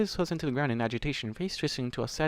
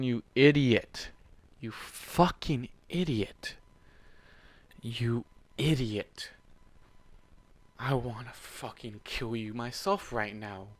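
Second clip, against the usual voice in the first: exasperated scolding; much slower than usual. Real, not acted. Reader scolding Warden, a slow exasperated groan. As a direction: drag each word out in disbelief.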